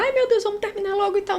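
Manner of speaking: mock panicked manicurist; flustered hurry. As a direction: squeal it in a fluster.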